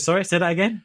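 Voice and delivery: mock English customer. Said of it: "She goes".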